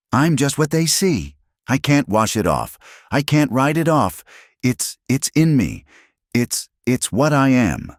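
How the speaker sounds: high, tearful, desperate voice; a woman breaking down over a cruel word; distraught young woman. Acted. Alina tells Eli what the men called her, high and distraught.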